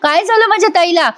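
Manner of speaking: mildly dramatized shocked disbelief; imitated shock. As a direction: act out being stunned by bad news. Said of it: "पायाखालची जमीन सरकते".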